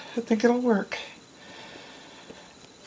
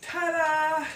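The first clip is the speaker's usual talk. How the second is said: ta-da; 8 semitones higher, 9 dB quieter than usual. Real, not acted. Unveiling finished shelf.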